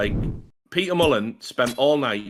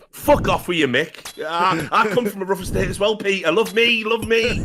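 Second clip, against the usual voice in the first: higher, louder mock plea to a hero; jealous pleading; 8 semitones higher, 4 dB louder than usual. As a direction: beg for his love in hammed-up desperation. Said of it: "I'd have been like".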